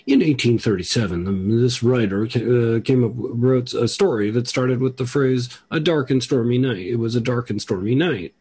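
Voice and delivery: hammed-up radio feature read; radio presenter. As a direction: imitate a presenter relishing a literary anecdote. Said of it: "today, the person was like".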